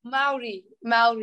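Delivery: "Maori" repeated carefully as "Maodi"; repeating Maori. Shown as a demonstration. Guest repeats the word after the host, careful. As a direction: copy the host's Maori. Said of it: "Yeah, that's good".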